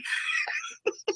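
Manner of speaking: very high, soft wheezing laugh; real silent-wheeze laugh; breathless squeaky laugh. Real, not acted. Recalling doctor's advice.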